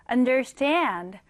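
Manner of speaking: understand with STAND stressed; stress on second half. Shown as a demonstration. Teacher shows pupils where stress falls, understand stressed on STAND. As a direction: lean on the "stand" at the end of understand. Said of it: "강세를 주시면 됩니다".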